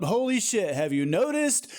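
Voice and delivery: "have you noticed?" near normal pitch, ending in a fall; falling repeat. Real, not acted. Same line repeated, falling.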